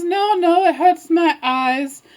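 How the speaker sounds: lightly fussy granny, drawn out; wolf posing as grandma. Acted. Wolf refusing open curtains, fussing as Grandma. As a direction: start high, then slow down.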